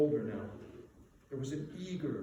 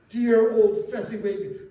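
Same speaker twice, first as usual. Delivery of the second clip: loud, slow, gushing praise; 5 semitones higher, 12 dB louder, slower than usual. A narrator's reading. Apprentice gushing over his kind master. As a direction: pour out fond admiration. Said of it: "gushed the young Scrooge".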